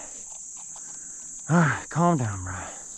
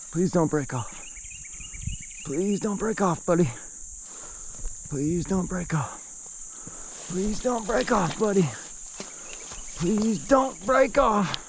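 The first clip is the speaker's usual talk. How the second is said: rising, pleading, begging the fish to hold on; please-please, nervous, climbing higher each time; anxious pleading; 4 semitones higher than usual. Real, not acted.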